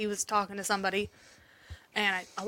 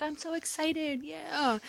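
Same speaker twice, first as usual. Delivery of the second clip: put-on excited little boy; 5 semitones higher, 6 dB quieter, much slower than usual. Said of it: "He's like".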